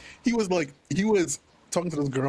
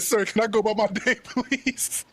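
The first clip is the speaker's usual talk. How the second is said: laughing mock plea; 3 semitones higher than usual. Cousin's polite plea, laughing.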